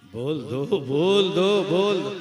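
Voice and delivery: loud call to the crowd. Real, not acted. Preacher calling on the crowd, loud. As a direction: rouse the audience to shout back.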